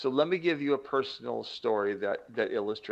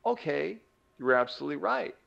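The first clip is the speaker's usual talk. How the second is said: compliant brain; 3 semitones higher than usual. Acted. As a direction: act out a brain agreeing at once. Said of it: "the brain says".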